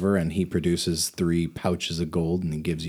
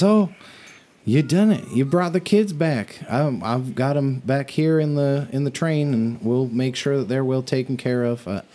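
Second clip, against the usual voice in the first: Auntie Saul; 4 semitones higher than usual. Acted.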